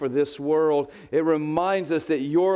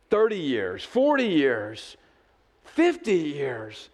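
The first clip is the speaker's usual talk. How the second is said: slowing count; slower than usual. Acted. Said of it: "building count".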